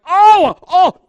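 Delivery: very loud, high-pitched acted yelling; frustrated yell. Preacher acting out losing it at a game, frustrated yell. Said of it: "I'm like".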